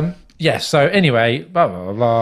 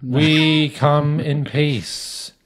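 slow, grand alien greeting; 4 dB louder, much slower than usual. Acted. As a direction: announce it like a ceremonial alien. Alien's grand first-contact announcement.

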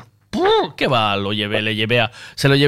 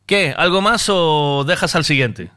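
slow impatient shopkeeper. Retold or imitated. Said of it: "como diciendo".

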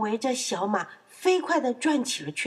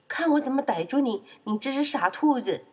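higher, taunting piglet voice; playful threat; 4 semitones higher than usual. Acted. Piglet threatens rabbit in story. (调皮地放狠话)

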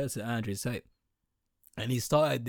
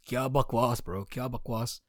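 Pakistani friend. Retold or imitated. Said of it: "what would my Pakistani friends say".

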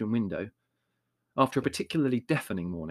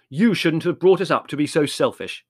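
austere; 5 semitones higher, 7 dB louder than usual. A narrator's reading. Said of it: "said Larry austerely".

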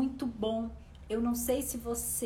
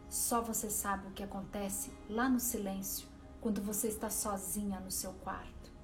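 soothing spa whisper. Acted. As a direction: gently guide the listener inward. Leads a guided meditation over music.

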